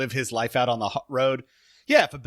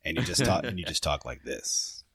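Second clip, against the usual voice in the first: lowered mock American accent; 9 semitones lower, 4 dB quieter than usual. Shown as a demonstration. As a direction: drop the pitch into a Yank voice. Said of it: "anytime an Englishman does the Brit-, uh, American voice".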